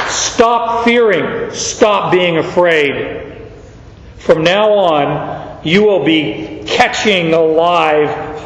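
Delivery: slow and gentle; tender reassurance. Acted. Jesus reassuring the frightened fisherman, tender and slow. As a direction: soothe him slowly. Jesus comforting, commissioning Peter.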